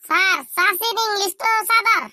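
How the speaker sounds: high, slow schoolboy recital; high singsong classroom answer; pupil's silly answer. Acted. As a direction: call out the answer in a high, drawn-out voice. Pupil proudly offers silly answer.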